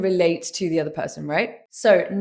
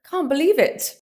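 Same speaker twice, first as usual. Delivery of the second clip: gasp, then high astonished reaction; shocked disbelief; 7 semitones higher than usual. Shown as a demonstration. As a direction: gasp and let the pitch leap up in disbelief. Demo of surprised reaction to news.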